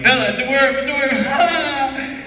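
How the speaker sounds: put-on stretched, squeaky baby-talk; high coaxing voice to a child. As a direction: coo it at a little kid, stretching worm. Talking to child co-star with worm.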